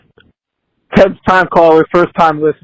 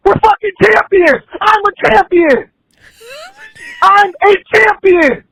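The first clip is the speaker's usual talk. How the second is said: raised, heated victory yelling; fired-up angry shout; 4 semitones higher than usual. Real, not acted. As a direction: bellow it like a pumped-up fan. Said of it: "thrown off by the anger".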